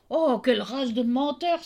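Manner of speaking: the tailor furious at his sons; angry tailor. Acted. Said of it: "s'écria le tailleur". (le tailleur s'écrie, furieux)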